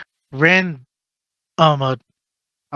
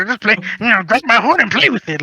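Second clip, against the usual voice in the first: mock creepy intro; 6 semitones higher, faster than usual. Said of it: "And I go".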